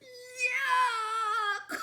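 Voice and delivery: high, loud yuck into a laugh; disgusted yuck. Acted. Monster kissed on the cheek, loudly disgusted. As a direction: recoil in disgust.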